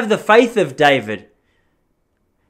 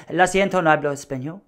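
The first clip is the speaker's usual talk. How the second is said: committed Spanish accent. Shown as a demonstration. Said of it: "I'm the kind of guy I like to commit".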